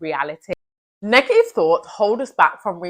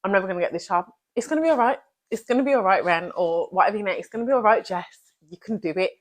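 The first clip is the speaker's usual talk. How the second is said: self-reassurance; 4 dB quieter, faster than usual. Shown as a demonstration. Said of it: "So literally".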